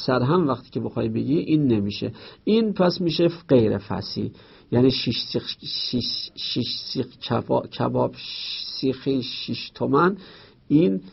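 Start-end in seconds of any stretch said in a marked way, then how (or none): 4.9-10.2 slow, stumbling attempt with restarts; halting tongue-twister. Shown as a demonstration. Teacher showing students a hard-to-say phrase, halting. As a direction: trip on it and restart, carefully.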